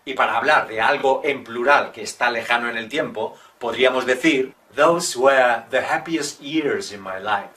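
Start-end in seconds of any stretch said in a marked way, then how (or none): 4.8-7.5 mock dramatic. Shown as a demonstration. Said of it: "¡Ay, qué dramático!".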